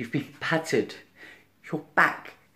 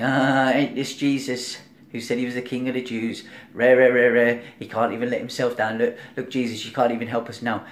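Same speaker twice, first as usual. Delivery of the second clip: mocking. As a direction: sneer and taunt him. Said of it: "The thief this side was mocking him".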